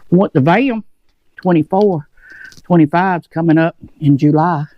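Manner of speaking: talking through a mouthful; chewing while speaking; mouth full. Real, not acted. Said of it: "talking with my mouth full".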